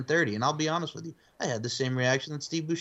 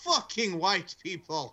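quoting movie line; 6 semitones higher, slower than usual. Retold or imitated. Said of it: "the black guy goes".

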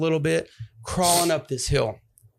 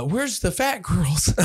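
slow, slightly higher, wasted asking; mild retold drunken question; drawn-out clueless question; 4 semitones higher, slower than usual. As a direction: ask it slowly, like a clueless drunk. Drunken question to the man at the door.

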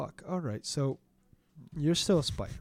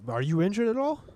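put-on very old man; 7 semitones higher, 5 dB louder than usual. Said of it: "and he says".

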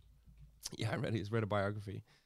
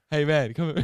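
hammed-up prisoner, louder, calling him over; a retold inmate beckoning; mock prisoner voice; 4 semitones higher, 8 dB louder than usual. Prisoner calling a cleaner over, hammed-up voice. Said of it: "He goes".

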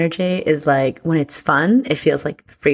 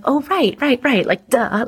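mock duh; 8 semitones higher than usual. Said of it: "And I'm like".

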